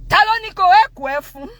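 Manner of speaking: high, loud imitated outburst; dad losing it. Dad confronting the gateman over the door, enraged. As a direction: demand it like an irate father. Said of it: "my dad loses it".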